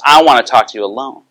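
insistent demand, imitating an upset client. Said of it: "she got very upset with me".

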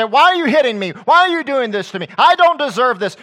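high, loud protesting cry; crying aloud. Retold or imitated. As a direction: cry out in loud, indignant pain. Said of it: "cry aloud".

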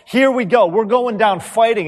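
hammed-up eager fighter; fired up. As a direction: Peter rallying himself before the fight. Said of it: "And Peter says".

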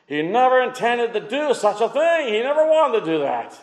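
insistent preacher, pitch often lifted; impassioned preaching. Real, not acted. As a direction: drive the contrast home from the pulpit. Preaches Peter against Judas.

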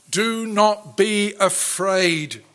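slow tender. Acted. Preacher quotes Christ to listeners.

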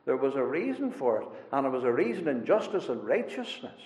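voicing David's prayer to God, said quietly; prayerful quote. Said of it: "But he says".

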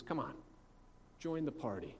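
softly retold coaxing; gentle pleading. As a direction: coax him quietly, without pushing. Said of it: "He pleads with him".

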